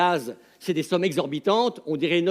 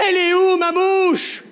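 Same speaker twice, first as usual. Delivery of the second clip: high outraged yell; hurling; 10 semitones higher, 7 dB louder than usual. Retold or imitated. A Belgian tourist yells at the waitress, high outraged yell. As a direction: howl it out like a betrayed drunk. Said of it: "et là il hurle".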